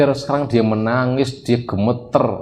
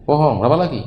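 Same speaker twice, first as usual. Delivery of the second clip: mock stern interrogation; 5 semitones higher, faster than usual. Father interrogates son in story.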